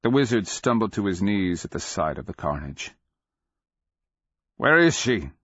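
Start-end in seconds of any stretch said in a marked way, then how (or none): 4.6-5.3 urgent, raised-voice question; cried out. A narrator's reading. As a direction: cry it out, higher and louder. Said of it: "he cried".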